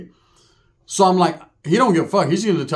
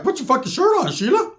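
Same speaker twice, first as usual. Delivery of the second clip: high yelled order to put her shirt on; shrill mock scold, much higher; yelling at Sheila; 11 semitones higher than usual. Walking in on Sheila, yelling at her to cover up with a high mock yell. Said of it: "I walked in and I was like".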